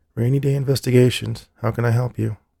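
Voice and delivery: flat, level monotone. Answering the detective agency's phone for a caller, in her typical monotone. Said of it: "answered in her typical monotone".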